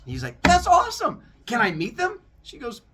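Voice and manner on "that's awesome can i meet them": loud, high eager burst; excited youngster. Acted. Grandson asking to meet new siblings, acted excitement. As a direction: gush with hammed-up excitement.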